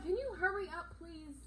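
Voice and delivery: high, loud, desperate begging; high loud pleading in pain; frantic pleading. Retold or imitated. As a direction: beg her to hurry, near snapping. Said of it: "I went off at this lady".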